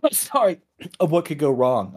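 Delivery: coughing, throat catching; a cough breaks the words; choking on a drink. Real, not acted. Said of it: "I'm choking on this".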